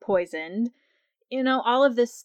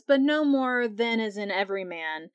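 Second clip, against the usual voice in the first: breathy voice. Retold or imitated. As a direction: breathe the words out to tempt the king. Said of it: "in this breathy voice".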